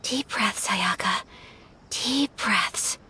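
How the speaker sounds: soft, murmured pep talk to herself; calming self-talk. Real, not acted. Ayaka quietly calming herself before asking the Traveler. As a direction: hush your own nerves under your breath.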